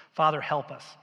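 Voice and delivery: earnest, slowed prayer voice; closing prayer. Acted. Pastor praying for the congregation, earnest and slow. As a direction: plead gently on behalf of all.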